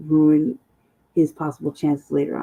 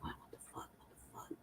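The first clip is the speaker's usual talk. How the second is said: whispered, choked disbelief; tearful whisper; 33 dB quieter than usual. Retold or imitated. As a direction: barely breathe it out through tears. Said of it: "I immediately started crying".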